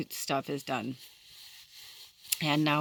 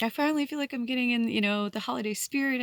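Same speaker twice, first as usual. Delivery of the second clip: higher, quick happy self-quote; retold excitement; 7 semitones higher, faster than usual. Telling viewers about getting the holiday spirit, higher and excited. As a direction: rush it out with rising delight.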